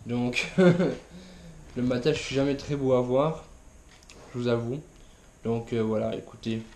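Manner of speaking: groggy, low vocal fry; just-woke-up croak; morning voice. Real, not acted. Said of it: "j'ai ma voix du matin".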